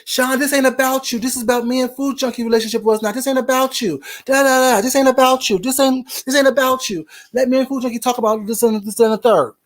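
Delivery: lightly voiced woman checking Sean; a hint of her scolding voice; imitated scolding. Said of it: "she pretty much kinda checks Sean".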